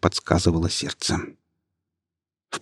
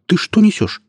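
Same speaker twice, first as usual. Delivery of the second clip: much higher, stunned outburst; shocked disbelief; 13 semitones higher, 3 dB louder than usual. Acted. Ilya, stunned, challenges Yasmina in much higher disbelief. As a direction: jolt up in disbelief at her words.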